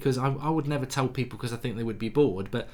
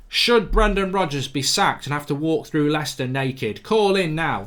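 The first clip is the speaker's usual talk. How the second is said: mock phone-in host; 3 semitones higher, 4 dB louder than usual. Mocking a radio phone-in plug.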